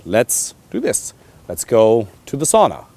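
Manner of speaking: firm, unhurried invitation; decisive leading. Shown as a demonstration. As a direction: propose it like a settled plan. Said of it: "Even just the way you say it".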